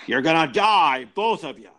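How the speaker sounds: high, halting indignant accusation in an impression; Jimmy Stewart. Podcaster imitating the actor accusing two murderers, high indignant impression. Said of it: "to hear Jimmy Stewart say".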